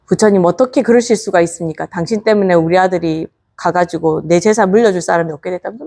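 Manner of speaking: ordinary talk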